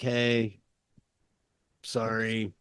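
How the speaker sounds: soft, low retold apology; sheepish apology. Podcaster acts out Tom's apology to Pritchard, soft and sheepish. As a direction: apologise softly, imitating a placating man. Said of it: "he goes in, apology to buy time".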